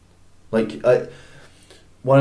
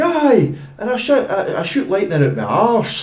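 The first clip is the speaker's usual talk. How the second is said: mock battle-speech bellow, pitched way up; Mel Gibson speech; 10 semitones higher than usual. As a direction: rouse the troops like a Scottish war chief. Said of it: "specifically good when he's doing speeches".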